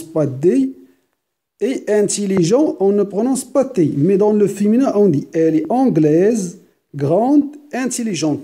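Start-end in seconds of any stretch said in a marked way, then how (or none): 4.9-8.4 "anglaise", "grande", "intelligente" with the final z, d and t clearly sounded; final consonants sounded. Shown as a demonstration. Teacher showing the feminine, every final consonant spoken. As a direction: say each feminine ending aloud. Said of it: "نطقنا S, نطقنا D, نطقنا T".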